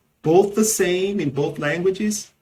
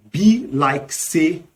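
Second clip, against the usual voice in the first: Nigerian Pidgin; slower than usual. Shown as a demonstration. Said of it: "in Nigerian Pidgin English".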